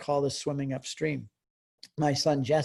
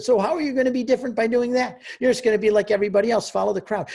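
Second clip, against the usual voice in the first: retold rebuke; 5 semitones higher, 6 dB louder, faster than usual. Father arguing with teenage son.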